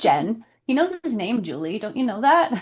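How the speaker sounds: playful, indignant telling-off; mock fed up, leaning on the name; mock exasperated scolding. Viewer lecturing the character on a name, mock exasperated.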